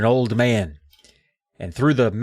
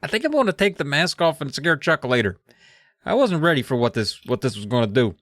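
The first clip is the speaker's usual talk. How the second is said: raised, thin voice, uneasy; uneasy old man. Retold or imitated. Steve decides to take the mask off, raised uneasy voice. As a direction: back out of the plan nervously. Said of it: "and he's like".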